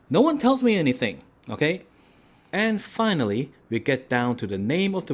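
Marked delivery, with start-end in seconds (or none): 0.1-1.8 high, mock-exasperated whine; high mock whine about nobody telling him; mock exasperation. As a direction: complain in a high, put-upon whine. Exasperated joke complaint.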